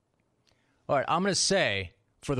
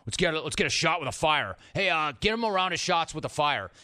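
party bro. Retold or imitated. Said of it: "He just talk like this".

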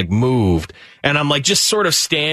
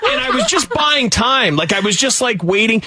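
laughing; 13 semitones higher than usual. Real, not acted. Laughing defense after teasing.

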